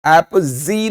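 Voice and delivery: "एपजी" as ap-ZEE; wrong z sound. Shown as a demonstration. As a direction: say "एपजी" with a buzzing z for the g. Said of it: "एपजी नहीं". ("एपजी" में ज की जगह ज़)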